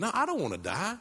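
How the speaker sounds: soft but high, swooping refusal; alarmed protest. Retold or imitated. Dying man refusing death, mildly alarmed protest.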